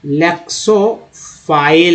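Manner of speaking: लेक्सोफाइल drawn out slowly, rising at the end; slow model word. Shown as a demonstration. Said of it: "teacher models word twice".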